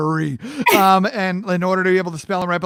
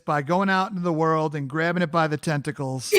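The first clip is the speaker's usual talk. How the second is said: laughing; 4 dB quieter than usual. Real, not acted.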